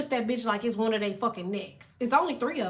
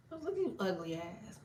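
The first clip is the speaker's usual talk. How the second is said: trash talk to demons; 4 semitones lower, 9 dB quieter than usual. Shown as a demonstration. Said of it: "talk so dirty to demons".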